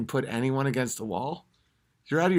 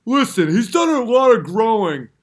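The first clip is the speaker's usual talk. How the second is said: high, loud mock earnest plea; mocking defender voice; 8 semitones higher, 8 dB louder than usual. Comic mocking women defending Joe Rogan. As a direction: sell it like a gushing defender. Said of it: "where it's like".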